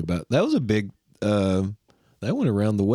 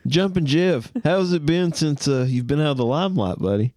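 interviewer voice; 5 semitones higher than usual. Pretend. Voicing the interviewer.

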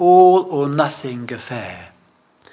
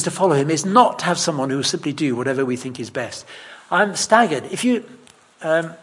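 ordinary talk

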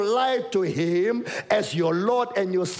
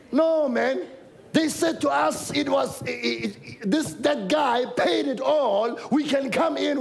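eager protest; 4 semitones higher than usual. Acted. The excluded eagerly insisting they may come in. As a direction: insist you've been let in. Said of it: "and they're like".

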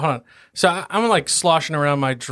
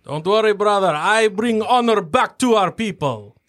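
higher, proud promise to a brother; proud dwarf vow; 6 semitones higher than usual. Acted. Dwarf promising his brother, proudly and higher. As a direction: swear to restore the family honor.

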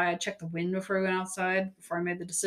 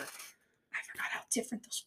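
whispering; 15 dB quieter than usual. Real, not acted. Unvoiced whispered aside.

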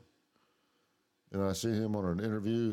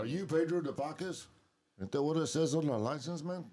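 much higher put-on stoner voice; stoner cop quote; 8 semitones higher, 3 dB louder than usual. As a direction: pitch it way up like a stoned movie character. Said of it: "quote movie lines from Cheech and Chong".

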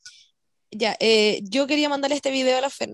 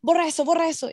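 higher-pitched imitation of someone yelling; half-voiced angry demand, pitched up; retold yelling; 4 semitones higher than usual. Man yelling at her for filming his dogs, retold mock yell. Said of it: "Y me empieza a gritar".

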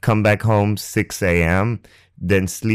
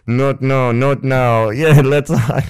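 mock refusal then laugh; 5 semitones higher, 4 dB louder, slower than usual. Fending off hug, then laughing.

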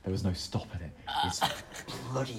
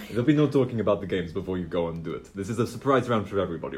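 put-on Italian accent; faster than usual. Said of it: "I, I'll just do that".

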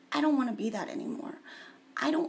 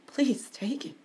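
pleading; 3 semitones higher, slower than usual. Shown as a demonstration. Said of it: "I'm just like".

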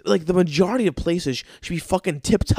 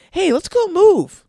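high, loud, drawn-out mock pitch; mock enthusiasm; 14 semitones higher, 7 dB louder than usual. Mocking a friend who asks for moving money, hammed-up enthusiasm. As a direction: imitate a shameless, over-eager friend. Mocking the movers' casual proposal.

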